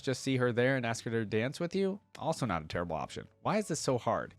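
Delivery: lightly voiced earnest young warrior, musing to herself; Leona's journal read. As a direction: read her diary like an anxious girl planning. Reading Leona's journal aloud.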